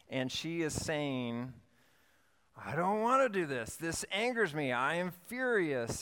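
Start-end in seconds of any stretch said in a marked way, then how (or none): 2.5-6.0 higher, mock-fuming child's lament; imitating angry daughter. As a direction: play a fiery eleven-year-old venting in her room. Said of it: "a child's lament".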